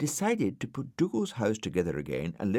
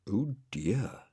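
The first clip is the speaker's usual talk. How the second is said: others' dismay; 3 semitones higher than usual. A narrator's reading. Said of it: "said the others".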